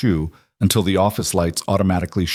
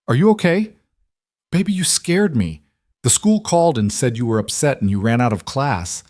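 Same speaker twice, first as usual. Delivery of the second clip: lightly acted anxious dad, higher-pitched at first; worried father; 4 semitones higher than usual. Father checks on his daughter, mildly frantic. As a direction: voice a relieved but shaken parent.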